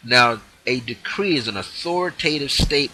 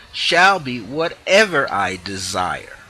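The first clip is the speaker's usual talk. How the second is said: decree; 4 dB louder, slower than usual. Shown as a demonstration. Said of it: "When I say shall be".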